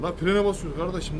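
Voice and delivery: fed-up trucker yelling at traffic; angry outburst. Real, not acted. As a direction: shout at the car ahead for braking. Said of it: "Çok sinirlendim".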